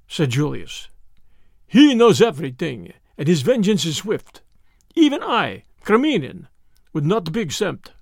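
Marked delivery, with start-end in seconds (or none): 1.7-7.9 put-on lightly accented Russian, measured and wary; a hint of a frightened conspirator; fearful Russian. Russian warns his captor about Mr. Brown, fearful.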